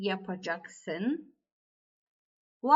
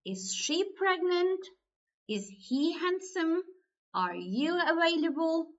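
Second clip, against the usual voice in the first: "Is she pregnant", "Is he handsome", "Are you available" each pitched high as a question; yes-or-no question; 5 semitones higher than usual. Shown as a demonstration. Teacher giving examples of yes-or-no questions, high questioning tune. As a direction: ask all three as high-pitched sample questions. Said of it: "if your question is like that".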